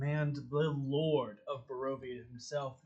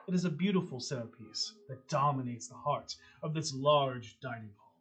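dramatic scene narration; 2 semitones lower than usual. A narrator's reading. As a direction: paint the gothic dining hall for the players. GM scene setting.

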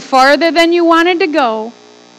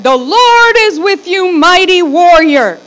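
proclaiming angel; 3 semitones higher, 5 dB louder than usual. Retold or imitated. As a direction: announce it like a herald.

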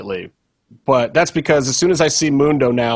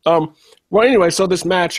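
talking while chewing an apple; words round a bite of apple; mouth full; 5 semitones higher than usual. Real, not acted. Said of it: "I'm eating an apple".

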